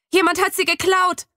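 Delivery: high, alarmed outcry; panicked cry over the missing tortoise. A narrator's reading. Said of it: "schreie ich".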